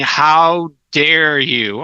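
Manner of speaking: slow, drawn-out retold indignation; mock outrage. Department chair scolds a teacher by email, mock outraged. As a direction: stretch it out like an offended boss.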